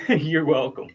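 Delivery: "you're welcome" with a laugh in it. Real, not acted. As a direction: laugh through it, amused. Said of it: "laughs while thanking the asker".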